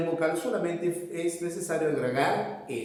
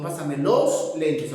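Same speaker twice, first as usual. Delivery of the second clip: Pásame los lentes said slowly; slow model of the right form; slow correct model; 3 dB louder, slower than usual. Shown as a demonstration.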